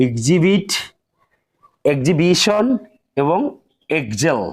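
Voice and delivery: এক্সিবিট said egzibit; x before h as gz. Shown as a demonstration. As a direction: silent h after gz. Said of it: "ইউ জ উচ্চারণ করতে হবে".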